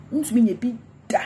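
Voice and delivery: wontumi nyɛ bi da fired off fast and loud, pitch up. Real, not acted. Taunting a rival vlogger, loud and fast. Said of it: "repeated louder".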